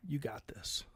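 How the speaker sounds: breathy whispered "you got this"; whispered encouragement. Retold or imitated. Brushing off his stranded wife with a whisper. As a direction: brush her off softly. Mock pep talk.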